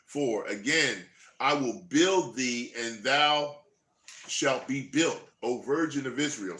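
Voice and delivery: slow, solemn Bible reading; scripture reading. Acted. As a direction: read it out like a preacher. Reads scripture aloud.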